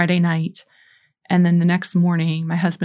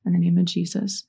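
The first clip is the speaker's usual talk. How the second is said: prayer response. Shown as a demonstration. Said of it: "repeat after me".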